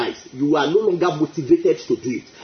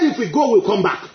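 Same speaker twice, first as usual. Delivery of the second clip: confident; 3 semitones higher than usual. Retold or imitated. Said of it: "He was too sure".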